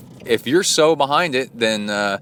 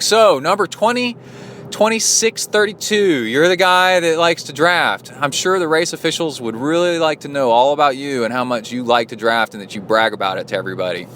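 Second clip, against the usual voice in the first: smug gotcha; mocking threat; 4 semitones higher than usual. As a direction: taunt him with his race number. Threatening to report drafter.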